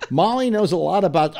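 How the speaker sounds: re-enacted read on the edge of breaking; about to crack up. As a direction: try again, barely holding it together. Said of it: "I just broke up completely".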